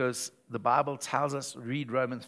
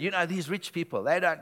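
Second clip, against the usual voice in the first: whinge; 4 semitones higher than usual. Retold or imitated. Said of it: "I was having a fat whinge".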